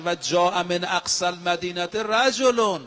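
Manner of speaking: slow, measured recitation of the verse; chanting scripture in a sermon; Quranic recitation. Acted. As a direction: intone the Arabic verse slowly and solemnly.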